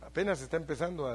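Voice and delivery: ordinary talk, nothing marked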